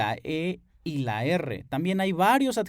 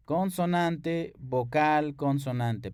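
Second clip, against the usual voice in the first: pattern spelled slowly; slower than usual. Shown as a demonstration.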